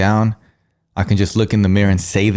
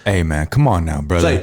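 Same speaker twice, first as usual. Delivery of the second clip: Texan accent; 4 semitones lower than usual. Shown as a demonstration. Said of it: "you're already getting better".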